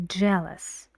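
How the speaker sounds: "Jealous" with a strong stress on the first syllable "JEA"; "Jealous": stress the first syllable, let "-lous" fall away. Shown as a demonstration. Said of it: "Strongly stressed".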